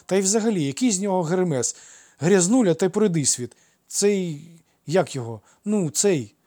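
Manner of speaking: put-on high, loud, indignant boy; scornful child's outburst. A narrator's reading. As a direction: scoff loudly, then grope for the insult. Child scorns Hermes, gropes for word. (обурено, зневажливо по-дитячому)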